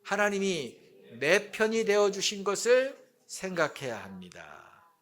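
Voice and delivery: measured group-reading delivery, ending held up; reading aloud together. Shown as a demonstration. Preacher leading congregation in reading the point, measured recitation. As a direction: read it out evenly so all can join. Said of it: "한번 읽어봅시다".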